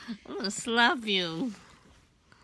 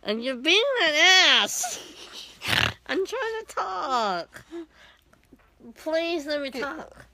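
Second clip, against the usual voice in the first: talking while being tickled; words broken up by tickling; 4 dB louder than usual. Real, not acted. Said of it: "you keep tickling me".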